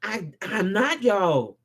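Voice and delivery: low, slow and firm; quiet conviction. Real, not acted. Vlogger restates his stance, calm conviction. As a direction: say I'm not y'all softly but sure. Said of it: "I come with conviction in my voice".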